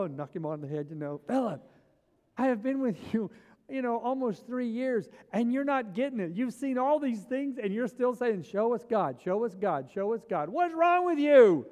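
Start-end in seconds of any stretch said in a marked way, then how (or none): 1.3-11.7 Jesus to Philip after three years, exasperated. Retold or imitated. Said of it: "picture of him walking over to Philip and going".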